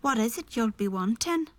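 put-on a first try at an Irish accent, lightly done. Lightly voiced Irish accent for her first reading as Peg. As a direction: try an Irish lilt on the line. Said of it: "I had to do an Irish accent".

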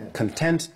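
"Content" as con-TENT; stress on second syllable. Shown as a demonstration. Actor repeats the corrected Content, stressed con-TENT. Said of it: "Yes, I see".

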